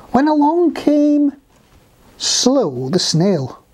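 lively storybook reading, slowing at the end; animated children's narration; story narration. A narrator's reading. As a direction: carry young listeners along to the new arrival.

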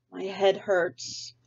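slow mild moan. Acted. Sarah complaining on the way to breakfast, slow mock moan. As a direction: drag it out, feeling sorry for herself. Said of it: "she moaned".

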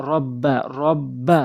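slow রব্বা, holding the doubled b; doubled consonant. Shown as a demonstration. Teacher demonstrating the tashdid rule, doubled consonant. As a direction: lean on the b in রব্বা, sounding it twice. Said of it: "রব্বা দুইবার উচ্চারণ হচ্ছে".

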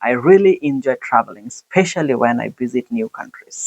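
"I really enjoy traveling" slowly, with rise and fall; slow demo of natural tone, "really" lifted; natural intonation. Shown as a demonstration. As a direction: model answer with lift on "really", easing down to "countries". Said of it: "Use natural tone".

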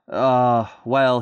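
mild hesitation, drawn out; stall, unsure what to say; stammering. Acted. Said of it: "he stammered".

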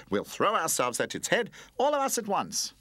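high, eager cry; rally the others; exclaimed. Acted. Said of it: "exclaimed the building blocks".

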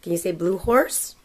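slow sing-song book reading; reading to a toddler. Acted. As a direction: read it like a bedtime picture book.

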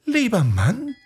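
wife's voice. A narrator's reading. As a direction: coax him in a high sweet voice.

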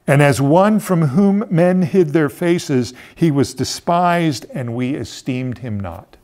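slow, solemn reading of the prophecy; scripture reading. Acted. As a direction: read it like a sacred text, weighing each line. Reads Isaiah aloud solemnly.

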